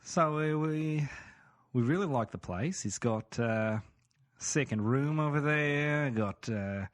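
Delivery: hesitant put-on Aussie house-hunter; Australian accent. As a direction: praise the place in an Aussie accent. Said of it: "your Australian accent seems like".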